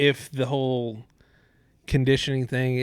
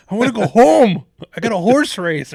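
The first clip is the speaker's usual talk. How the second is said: mock whiny player; 9 semitones higher, 10 dB louder than usual.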